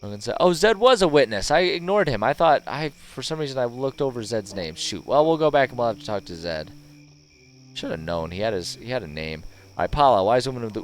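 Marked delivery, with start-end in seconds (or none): 0.4-6.7 reads the dwarf's lines with a bit more push; slightly louder in-character read; lightly voiced NPC. Reading NPC dialogue aloud.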